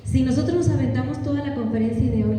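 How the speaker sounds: ordinary delivery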